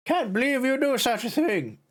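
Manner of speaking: high fussy granny voice; little old lady voice. Acted. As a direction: scold like a prim old lady. High put-on voice while playing.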